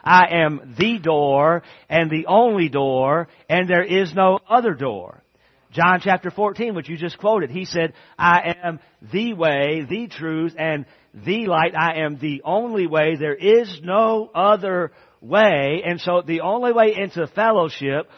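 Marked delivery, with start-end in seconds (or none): 0.0-5.2 slow, louder emphatic declaration; emphatic quote. Shown as a demonstration. Preacher to his congregation, slow and emphatic. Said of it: "And it's very emphatic". 8.2-15.8 slow, louder, each phrase pressed; emphatic quote. Shown as a demonstration. Preacher quoting Jesus to the congregation, emphatic. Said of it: "And it's very emphatic".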